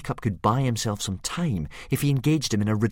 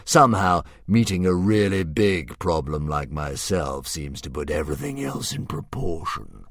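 slow, a hint of a grand beast; drawn out like a pleased old dragon; lightly voiced dragon; 7 dB louder than usual. Dragon musing over Hiccup's riddle, slow and lightly grand.

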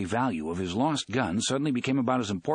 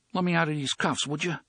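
meek, pleading request; humble; 5 semitones higher than usual. Acted. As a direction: ask it humbly, small voice. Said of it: "asked in a humble voice".

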